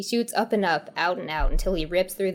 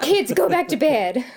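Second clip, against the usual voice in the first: excited; 7 semitones higher, 5 dB louder than usual. Acted. Woman shooing kids upstairs.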